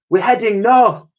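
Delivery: high loud announcement; excited discovery. Acted. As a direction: tell the world where you're going. Dotty realizing direction.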